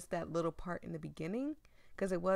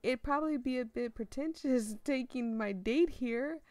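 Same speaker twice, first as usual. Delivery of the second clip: bashful Van, laughing a little at himself; Van brushing off the date comment with a laugh; voicing Van; 3 semitones higher, 4 dB louder than usual. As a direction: play it sheepish and self-deprecating. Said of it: "trying to sound like Van".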